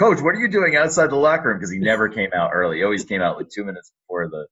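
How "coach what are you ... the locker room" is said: higher, louder surprised reply to the coach; surprised retort. Retold or imitated. Telling his old coach he's out early, surprised retort. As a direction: toss the question back at the coach, surprised. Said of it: "And I said".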